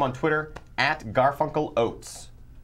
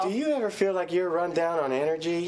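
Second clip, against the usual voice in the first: put-on a gentle kids' TV host voice, higher; Mister Rogers; 4 semitones higher than usual. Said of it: "in the voice of Mister Rogers".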